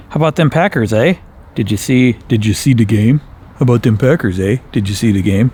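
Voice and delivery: put-on light Upper Peninsula Yooper accent, folksy eh. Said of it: "That was more like U P accent".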